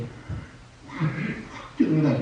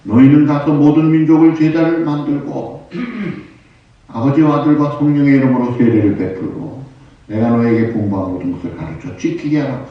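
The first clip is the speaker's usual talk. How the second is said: loud, raised scripture proclamation; preaching; 4 semitones higher, 7 dB louder than usual. Acted. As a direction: proclaim the command to the congregation. Reads Jesus's command aloud. (성경 말씀을 힘주어 선포하듯)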